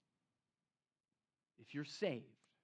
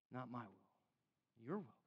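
much softer, very slow, breathy-hushed "not my will, your will"; hushed surrender; 7 semitones lower, 11 dB quieter, slower than usual. Retold or imitated. Preacher voicing Jesus in Gethsemane, hushed and slow. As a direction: let it fall almost silent in slow surrender. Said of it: "Jesus is like".

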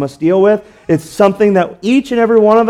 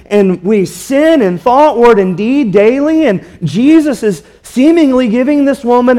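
impassioned preaching; 3 semitones higher than usual. Acted. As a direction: preach it out with rising fervor. Preaching at full force.

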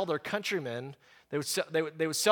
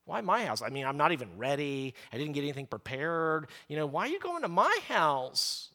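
grudging reluctance; 4 semitones lower, 5 dB quieter than usual. Pretend. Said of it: "he didn't respond that way at all".

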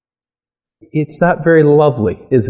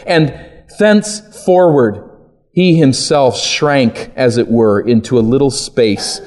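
solemn reading of a quote. Acted. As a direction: read the old text aloud with weight. Reads Edwards quote.

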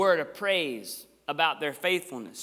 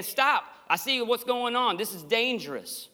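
raised, urgent warning that settles; Paul's passionate warning, higher; 6 semitones higher than usual. Retold or imitated. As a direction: cry stop to warn a friend. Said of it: "a passionate warning".

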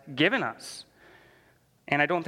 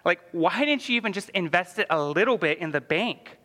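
stern master; 5 semitones higher than usual. Retold or imitated. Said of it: "And the master's like".

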